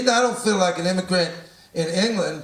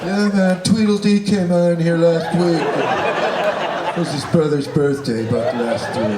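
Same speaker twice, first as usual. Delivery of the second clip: the clerk rambles on loudly; louder clerk voice; 4 dB louder than usual. Acted. Clerk explaining who bought the last pairs, loudly. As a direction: play the chatty clerk, louder. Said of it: "clerk continues".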